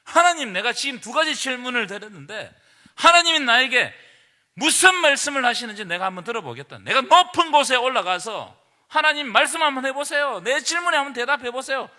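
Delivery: loud, demanding challenge thrown at God; aggressive questioning. Acted. Habakkuk challenging God for an answer, loud and demanding. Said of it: "아주 공격적으로 이렇게 하나님께 질문을".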